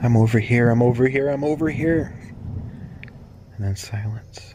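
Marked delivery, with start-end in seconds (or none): 0.0-2.1 rising, pleading call; acted plea to be found; urgent cry for help. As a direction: repeat it with pitch climbing each time.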